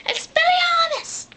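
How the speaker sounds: slow, high, shouted spell; high-pitched slow battle cry; casting a spell. Retold or imitated. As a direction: belt the spell out high and drawn-out. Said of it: "he's all like".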